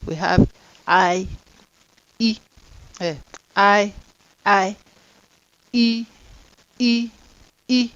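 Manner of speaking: held long E and I sounds; long vowel sounds drilled. Shown as a demonstration. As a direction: stretch each vowel out. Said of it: "long vowel sound".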